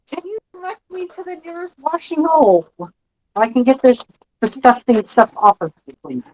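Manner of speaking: calm. Acted. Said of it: "calmly says".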